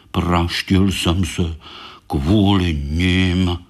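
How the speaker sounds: slow, low grumble; grumbling. Acted. Baňka grumbling about his hurt paw, slow low grumble. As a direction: grouse about it slowly. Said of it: "brblal Baňka".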